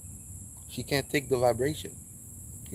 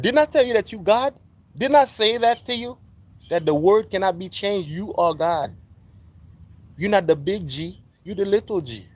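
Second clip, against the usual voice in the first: loud, raised declaring voice; emphatic quoted Jesus; 7 semitones higher, 7 dB louder than usual. Acted. Preacher quoting Jesus to listeners, emphatic. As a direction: proclaim it emphatically, higher and louder.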